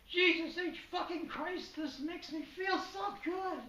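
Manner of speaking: squealing falsetto fake weeping; hammed-up sobbing in falsetto; mock crying. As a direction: wail it in a very high, tearful put-on voice. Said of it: "she started crying and said".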